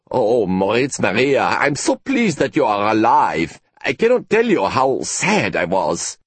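lightly voiced colleague, gushing relief. Colleague overjoyed the professor is alive, mild gush. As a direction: pour out the relief a touch too fondly.

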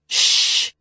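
sharp unvoiced shh; hissed shush. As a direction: hush them fast. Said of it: "Martha hissed".

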